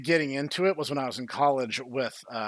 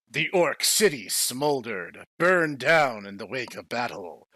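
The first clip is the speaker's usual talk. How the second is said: a deadpan epic novel reading; dramatic story reading; 3 semitones lower than usual. Acted. Reads novel aloud.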